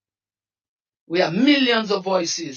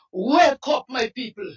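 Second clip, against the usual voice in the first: "Wake up" hoger en met een snik geroepen; tearful plea. Real, not acted. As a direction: smeek ze met een brekende stem om wakker te worden. Pleading with his people.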